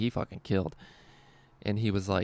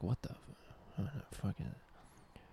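hushed whisper; 16 dB quieter than usual. Retold or imitated. Hushed first take of quote.

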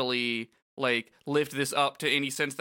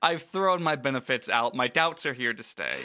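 lightly voiced hard-boiled noir detective; a hint of a grim noir narrator. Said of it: "fucking L A Noir voice".

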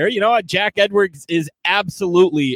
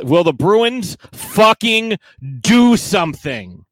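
exasperated; 3 semitones higher, 4 dB louder, slower than usual. Real, not acted. Frustrated rant about Bruins.

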